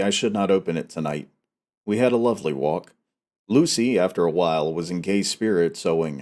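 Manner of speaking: steady, measured reading of a diary novel; story narration. A narrator's reading. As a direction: read it like an audiobook narrator. Reads Dracula chapter aloud.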